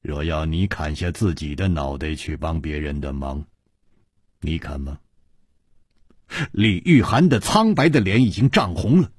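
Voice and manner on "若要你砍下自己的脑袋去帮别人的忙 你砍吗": soft, low, mild question; quietly amused and low; said smiling. A narrator's reading. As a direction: put the challenge gently, with a smile. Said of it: "微笑着说".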